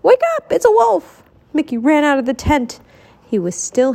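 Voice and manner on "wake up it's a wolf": high, urgent wake-up call; shouting to rouse a sleeper; loud alarmed shout. A narrator's reading. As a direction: raise the alarm, pitch leaping up. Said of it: "he shouted loudly".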